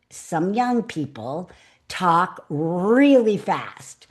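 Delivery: drawn out, each word stressed; slow emphatic. Shown as a demonstration. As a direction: stretch the words to make a point. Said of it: "gives me the giggles today".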